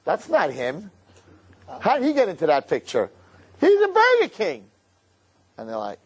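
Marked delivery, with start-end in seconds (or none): 0.0-4.7 baffled accuser. Acted. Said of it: "something standing like".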